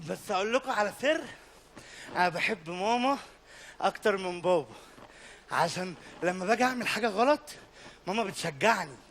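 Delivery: soft, low secret; confiding aside. Acted.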